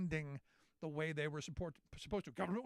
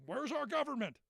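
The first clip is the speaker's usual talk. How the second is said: mild mock yell; 6 semitones higher than usual.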